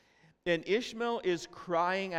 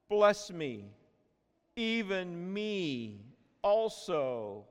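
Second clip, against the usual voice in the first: bitter cry; 2 semitones higher, much slower than usual. Retold or imitated. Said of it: "it was exceeding loud and bitter was this cry".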